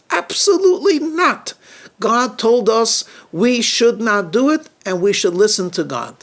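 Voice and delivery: firm, high-pitched refusal; a stern husband shutting it down; stern Adam. Acted. Adam refusing his wife sternly, firm no. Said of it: "Adam looks sternly at his companion".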